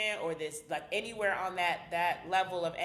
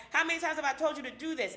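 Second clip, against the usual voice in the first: irritated scolding; 6 semitones higher, faster than usual. Retold or imitated. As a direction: snap at your partner over nothing, pitch raised. Scolding partner over little things.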